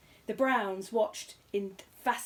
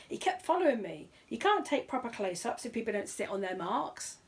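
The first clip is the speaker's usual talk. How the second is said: aggrieved cameraman; 3 semitones higher than usual. Acted. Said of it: "cried the cameraman".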